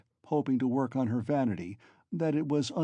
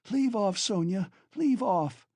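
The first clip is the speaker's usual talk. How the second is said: shouting; 8 semitones higher, slower than usual. Acted. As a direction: cry out to stop her. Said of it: "she shouted".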